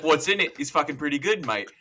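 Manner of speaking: lightly voiced Australian mate; playful imitation Australian banter; imitated Australian character. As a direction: quote it in a casual Australian accent. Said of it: "He's like".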